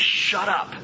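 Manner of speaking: high, forceful demand, broken up on the repeat; stronger command. Shown as a demonstration. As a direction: order silence firmly, then word by word. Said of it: "stronger ways of saying that".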